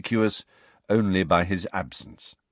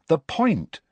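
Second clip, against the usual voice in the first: pressing on loudly; 10 semitones higher, 3 dB louder than usual. A narrator's reading. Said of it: "Hermione pressed on loudly".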